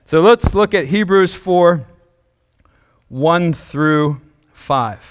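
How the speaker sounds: slow, winded words; out of breath. Real, not acted. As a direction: catch your breath while talking. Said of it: "I'm a little out of breath".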